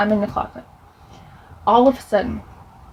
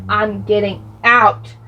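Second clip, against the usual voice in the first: calm seething rage; slower than usual. Retold or imitated. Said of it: "I'm like".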